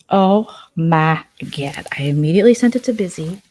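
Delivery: hushed, eager gossip whisper; excited whisper. Real, not acted. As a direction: whisper it like a juicy secret. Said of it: "gossip whisper".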